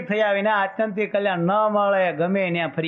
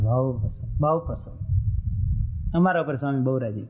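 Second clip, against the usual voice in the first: put-on smug old devotee; 5 semitones lower than usual. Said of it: "તો કે".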